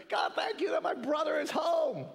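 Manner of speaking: half-hammed joyful shout of thanks; mock joyful shout. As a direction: call out thanks to God like a relieved brother. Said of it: "he's ecstatic".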